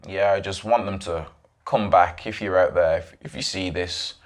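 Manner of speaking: low, flat, lifeless pleading; flat emotionless plea. Retold or imitated. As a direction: beg with no feeling at all. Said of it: "This guy had no emotion".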